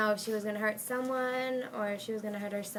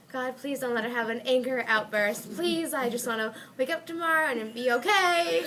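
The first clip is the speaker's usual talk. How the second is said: pleading; 3 semitones higher, 4 dB louder than usual. Retold or imitated. Praying at bedtime, retold.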